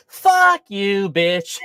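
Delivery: retold outburst, loud then easing; mock angry retort. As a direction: act out a brash friend telling off strangers. Acting friend's retort to strangers.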